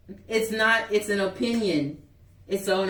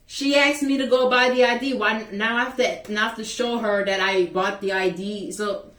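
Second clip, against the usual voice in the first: exasperated protest; 3 dB louder than usual. Real, not acted. Arguing with the assistant principal, loud and exasperated. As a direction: throw the question out in frustration. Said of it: "exasperated protest".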